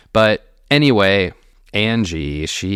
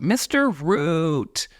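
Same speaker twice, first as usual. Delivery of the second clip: high, drawn-out mock call; mock yell; 10 semitones higher, much slower than usual. Carol greeting her visitor from the desk, mock yell. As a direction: stretch it out high without much volume. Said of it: "stood up and yelled".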